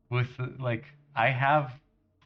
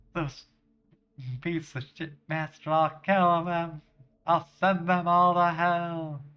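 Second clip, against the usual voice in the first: loud, higher-pitched furious threat; enraged vow; 5 semitones higher, 3 dB louder than usual. Acted. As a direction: rise into an acted vengeful outburst. Woman vows revenge on killers.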